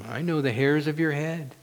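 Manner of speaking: soft, gentle reply; God's voice. Acted. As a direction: answer quietly, as God who knows you intimately. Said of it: "And God's voice says".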